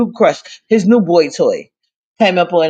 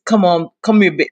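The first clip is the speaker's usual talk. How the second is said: lightly put-on seductive voice; a hint of a sultry come-on; sexy voice. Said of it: "you know how you try to get in that sexy voice".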